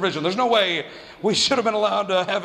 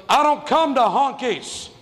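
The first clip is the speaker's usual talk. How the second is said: mock kid's yell, high and slow; imitated yell; 5 semitones higher, slower than usual. Neighborhood kid yelling back across the street, mock yell. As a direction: draw out a higher, mildly raised taunt. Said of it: "And he yells at me".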